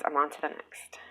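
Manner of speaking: hushed little aside; whispered aside. Real, not acted. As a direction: drop to a whisper moving on. Aside while moving on.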